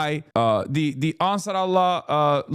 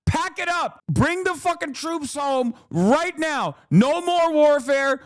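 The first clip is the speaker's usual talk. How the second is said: much higher, slow strained calls; high exasperated demand; 8 semitones higher than usual. Real, not acted. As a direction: plead to bring them home, overwrought. Demanding troops return.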